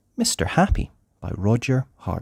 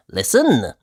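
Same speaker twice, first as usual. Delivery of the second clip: grinning hush; 6 dB louder than usual. Acted. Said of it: "now grinning".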